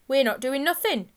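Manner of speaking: high, loud squeaked protest; loud, squeaky schoolboy protest. A narrator's reading. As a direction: squeak out a denial as a caught boy. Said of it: "squeaked Ringo".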